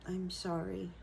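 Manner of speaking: softly retold sorry, close to tears; tearful apology, imitated. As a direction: quietly act out a remorseful little boy. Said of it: "tears were starting to come down his face".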